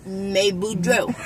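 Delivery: slow Cajun "May Boudreaux" with a rising "May"; cajun accent. Shown as a demonstration. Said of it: "you gotta do your mouth".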